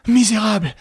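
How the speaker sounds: outraged shout; angry cry. A narrator's reading. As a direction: hurl the insult. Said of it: "s'écria".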